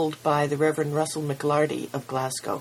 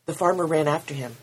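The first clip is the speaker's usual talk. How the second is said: steady storytelling voice read to a congregation; story narration; 3 semitones higher than usual. A narrator's reading. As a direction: tell it like a parable, unhurried. Reads story aloud at service.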